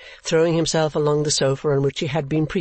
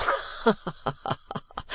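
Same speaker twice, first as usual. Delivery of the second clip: silly chuckle; 6 semitones higher, 7 dB quieter than usual. Acted. Lordly dupe pleased with his scheme.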